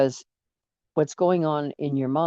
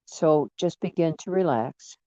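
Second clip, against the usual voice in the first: unhurried relaxation guide with long pauses; guided meditation. Acted. Guide talks listener through relaxing feet and calves, meditation delivery. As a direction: ease them into relaxing, phrase by phrase.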